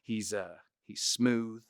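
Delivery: smooth, soft Texas impression; Matthew McConaughey. Shown as a demonstration. Showing his mannerisms, smooth soft drawl. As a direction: lean lightly into a laid-back drawl. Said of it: "really lean into the McConaughey mannerisms".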